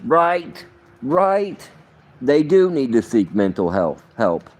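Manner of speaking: high, mocking "right, right"; sarcastic agreement. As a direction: fake agreement, dripping with sarcasm. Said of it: "And I'm like".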